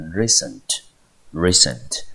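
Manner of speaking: recent said REcent, first syllable stressed; teacher modelling REcent twice. Shown as a demonstration. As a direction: recent with weight on RE, second syllable light. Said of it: "重音节落在第一个音节".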